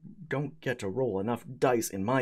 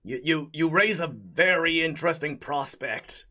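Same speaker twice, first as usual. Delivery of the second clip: spaghetti golem voice; 4 semitones lower than usual. Acted.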